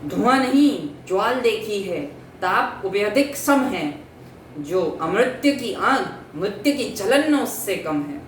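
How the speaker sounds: lightly declaimed verse reply; poetry recitation. Acted. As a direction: answer in measured, emphatic verse. Recites Chitralekha's answer in verse.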